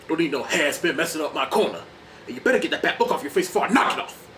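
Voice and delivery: menacing trash talk, rushed; Clubber Lang. Retold or imitated. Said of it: "he's all like".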